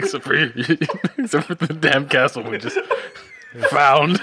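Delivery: laughing. Real, not acted. Laughing while correcting.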